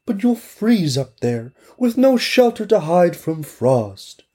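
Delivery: high, slow warning voice; worried neighbor. Acted. Neighbor warning the girl about the frost, high and slow. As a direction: warn her of the cold, drawn out.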